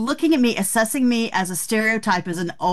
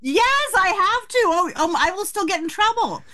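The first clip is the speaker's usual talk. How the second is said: higher-pitched preteen whine through laughs; half-laughing, higher plea of a kid in trouble; mock teenage protest; 5 semitones higher than usual. Mock-teen protest about parents' rules.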